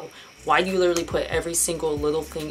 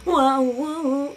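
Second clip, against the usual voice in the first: loud, higher startled whoa; sudden alarm; 7 semitones higher, 5 dB louder than usual. Real, not acted. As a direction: jump at the sound of the music. Startled by copyright music.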